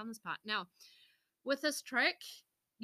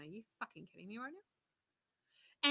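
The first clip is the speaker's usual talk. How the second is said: slow disbelief; 4 dB quieter, slower than usual. Retold or imitated. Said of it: "looked at each other going".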